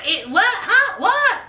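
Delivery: high, incredulous what-did-you-say; shocked disbelief. Retold or imitated. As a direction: act out her jaw-dropping shock. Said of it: "Rosemarie was like".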